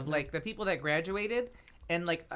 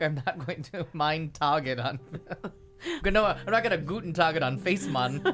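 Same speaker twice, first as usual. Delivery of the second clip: fake German accent; 3 semitones lower than usual. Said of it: "And she's like".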